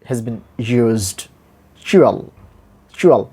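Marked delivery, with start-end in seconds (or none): 1.8-3.3 CHUAL with a short, lax u; short sound. Shown as a demonstration. Teacher models the ending of mutual, short sound. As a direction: say "chual" quickly, barely rounding the u. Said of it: "short sound has been".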